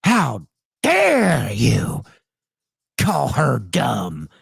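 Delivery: imitating her indignant how dare you; mock hysterical woman. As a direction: ham up her offended shriek. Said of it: "sent her into the motherfucking atmosphere".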